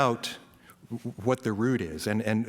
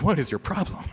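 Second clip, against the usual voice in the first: exasperated driver, pitch raised; mock mad; 5 semitones higher than usual. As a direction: act mildly fed up with another driver. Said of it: "but I can get mad".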